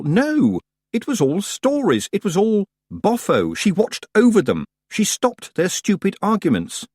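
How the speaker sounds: urgent protest. A narrator's reading. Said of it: "Tiffany wanted to yell".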